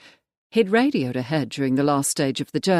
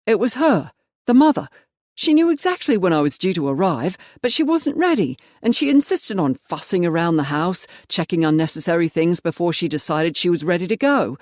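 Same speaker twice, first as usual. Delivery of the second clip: exasperated; 3 semitones higher, 3 dB louder than usual. Acted. Marsh explaining the delay to his boss, exasperated. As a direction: complain with mounting irritation.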